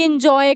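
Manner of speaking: "एंजॉय" begun with "in" for "en"; imitated mispronunciation. Teacher imitating what many students say, "एंजॉय" mispronounced in-joy. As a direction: copy learners saying "एंजॉय" as in-joy. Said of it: "बहुत सारे बोलते हैं कि".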